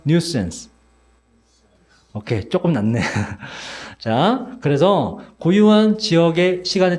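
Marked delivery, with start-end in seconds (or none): 0.1-0.7 nuisance said as NYOO-suhns, falling; English pronunciation demo. Shown as a demonstration. Teacher asks students to repeat once more, nuisance pronounced NYOO-suhns. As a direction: model nuisance with stress on the first syllable. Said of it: "자, 따라해봐".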